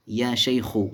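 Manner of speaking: शेखु ending in a bare short "u"; one damma. Shown as a demonstration. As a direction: say या शेखु with no final n. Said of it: "one ज़म्मा".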